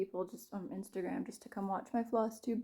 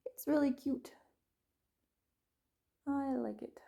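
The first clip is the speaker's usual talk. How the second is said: whispering; 6 semitones higher than usual. Real, not acted. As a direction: breathe it as an aside. Soft aside about the project.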